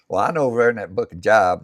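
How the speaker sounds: "Job" read like the word for work; mispronounced Job. Retold or imitated. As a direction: confidently say "Job" to rhyme with "rob". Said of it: "when she says".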